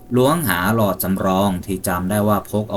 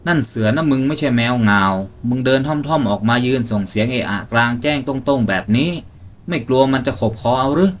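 higher, tense questioning voice; wary hunter; 4 semitones higher than usual. Acted. Hunter in the tree quizzing his friend below, tense. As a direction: probe the stranger, half afraid.

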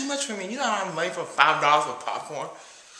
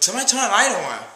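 louder, quicker call across the room; 4 semitones higher, 5 dB louder than usual. Acted. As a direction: shout for the lights. Calling out in dark theatre.

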